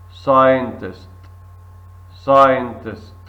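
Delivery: scientist said sigh-en-tist, C silent, loud; model word. Shown as a demonstration. Teacher models scientist loudly for the class.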